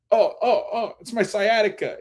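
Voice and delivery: high-pitched imitated yelps of pain; mock pain. Man buckling under his friend's weight, comic pained cries. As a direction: act out a back suddenly giving out.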